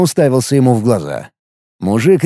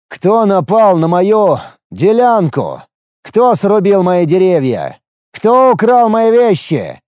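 slow, high, loud accusing shouts; 6 semitones higher, 3 dB louder, slower than usual. A narrator's reading. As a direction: hammer each accusing question. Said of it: "крикнул я".

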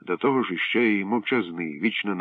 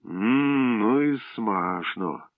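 savouring; 3 semitones higher, much slower than usual. Acted. Eating tomato.

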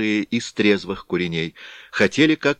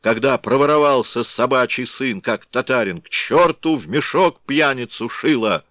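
loud, high cursing shout; angry mob yell; crowd shouting; 5 semitones higher, 5 dB louder than usual. A narrator's reading. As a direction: yell the abuse out.

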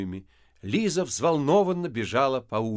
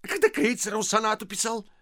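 much higher, spiteful mock question; husband sneering at wife; venomous; 10 semitones higher than usual. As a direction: jab at her with venom. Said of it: "ядовито спросил Коля".

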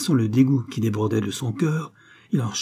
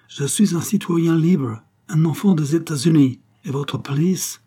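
higher, indignant foreigner's bellow; 6 semitones higher, 4 dB louder than usual. A narrator's reading. Obese foreigner defends his rights to the intruder, bellowing. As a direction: proclaim it loudly, pitched up. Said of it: "beugla l'homme obèse en son patois britannique".

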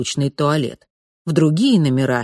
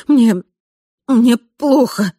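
feeling sick; 7 semitones higher, 6 dB louder, much slower than usual. Acted. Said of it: "чувствуя, как кровь отливает от лица".

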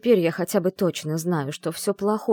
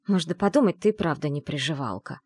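plain reading voice

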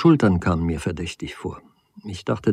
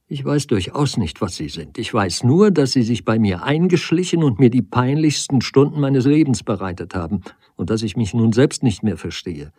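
agitated reproach; 2 semitones higher than usual. Acted. Woman accuses man of creeping into her life, agitated reproach. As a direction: let the hurt push the words out.

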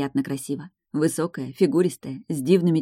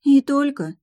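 disappointed; 9 semitones higher, 5 dB louder, slower than usual. A narrator's reading. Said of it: "с разочарованием выдохнула я".

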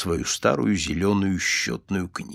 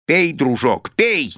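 louder, urgent call to drink up; impatient, louder shout at the young man to drink; 3 semitones higher, 5 dB louder, slower than usual. Acted. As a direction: hurry him loudly, impatient old man. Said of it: "нетерпеливо крикнул Николас".

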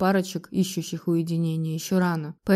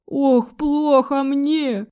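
very slow theatrical lament, higher; wailing; 5 semitones higher, much slower than usual. A narrator's reading. Mother-in-law wails to her son, theatrical lament. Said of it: "ещё громче запричитала свекровь".

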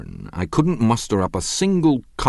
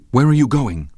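higher and louder, a sudden alarmed question; alarmed demand; 8 semitones higher, 6 dB louder than usual. A narrator's reading. Gatsby, alarmed, demands to know where the narrator goes. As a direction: cry out in alarm before he can leave. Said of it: "demanded Gatsby in immediate alarm".

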